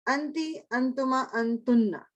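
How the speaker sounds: slow, drawn-out अंति, अंतुमा, अंतुन्ना with a rising end; drilled feminine pronouns. Shown as a demonstration. Teacher drilling feminine pronouns with the class, slow and stretched. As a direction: recite अंति, अंतुमा, अंतुन्ना slowly, stretching the last word. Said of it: "अब feminine".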